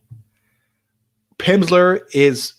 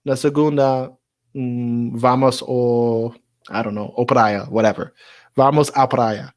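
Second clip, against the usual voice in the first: Brazilian speaker quoted; 2 semitones lower than usual. Retold or imitated. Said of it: "somebody will be like".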